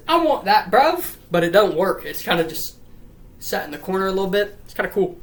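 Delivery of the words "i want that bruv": high, loud put-on kid voice; squeaky cartoon claim, rising at the end; Evan. Dead boy claiming the bear, high put-on voice. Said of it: "He says".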